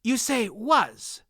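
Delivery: quick. A narrator's reading. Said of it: "the Murgo said quickly".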